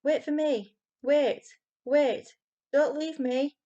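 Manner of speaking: high, loud desperate wail. A narrator's reading. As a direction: beg the others not to leave you. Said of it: "wailed the youngest".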